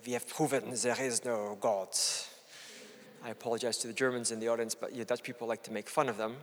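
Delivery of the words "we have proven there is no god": a light mock German accent; deadpan German accent, barely put on. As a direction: pretend scientist with a German accent on TV. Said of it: "say in a German accent".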